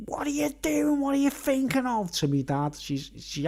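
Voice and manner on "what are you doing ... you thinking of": much higher mock nurse's scold; imitating the nurse scolding. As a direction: play the nurse telling dad off, up high. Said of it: "she's like".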